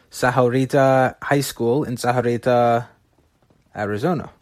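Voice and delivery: Sahuarita said the Spanish way; Spanish-accented Sahuarita and Arizona. Shown as a demonstration. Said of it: "You like my Spanish accent there".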